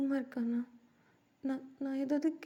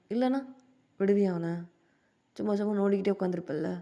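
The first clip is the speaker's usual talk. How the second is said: teasing scold; 4 semitones lower, 4 dB louder, faster than usual. Acted. Teasing scolding between members.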